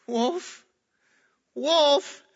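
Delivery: Wolf! yelled high and loud, rising; frantic boy's cry for help; desperate cry. Retold or imitated. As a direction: scream for help that nobody believes. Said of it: "the little boy says".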